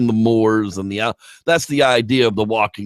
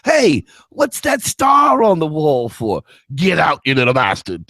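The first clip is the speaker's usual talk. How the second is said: put-on drunk pub patron; 4 semitones higher than usual. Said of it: "pub patrons quote".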